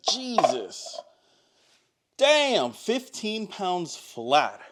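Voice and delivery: shocked. Real, not acted. Shock at scale reading.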